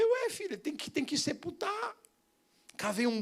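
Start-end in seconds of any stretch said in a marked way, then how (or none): 0.0-1.9 surprised dad. Retold or imitated.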